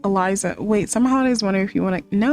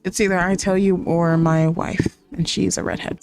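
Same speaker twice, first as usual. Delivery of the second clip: boss voice; 4 semitones lower than usual. Pretend. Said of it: "And he's like".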